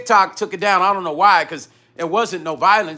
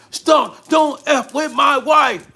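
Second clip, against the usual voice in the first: slow, high-pitched mock shout; drawn-out retold angry shout; imitated yelling; 7 semitones higher, much slower than usual. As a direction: yell it like an irate husband, word by word. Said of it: "he's yelling at him".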